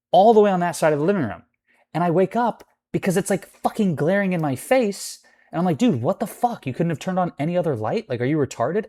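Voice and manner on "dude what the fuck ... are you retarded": high-pitched, incredulous what-he-felt rant; indignant imagined comeback, starting high; exasperated outburst. Retold or imitated. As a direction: let the inner outrage out, pitch jumping up. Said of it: "I didn't say it like that, but I felt like that".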